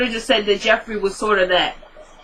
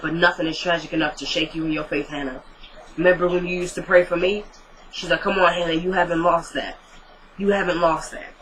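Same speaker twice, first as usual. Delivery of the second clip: softly comforting a grieving friend; hushed, gentle reassurance; soft soothing voice; 3 semitones lower, 4 dB quieter than usual. Retold or imitated. Catherine consoling Hannah about faith.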